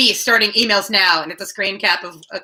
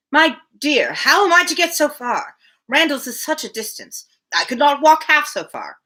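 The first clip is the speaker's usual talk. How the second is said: put-on higher, anxious old man complaining; fretful old father; 6 semitones higher than usual. Mr Woodhouse fretting to Emma about the distance, higher. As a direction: fuss over every step of the trip.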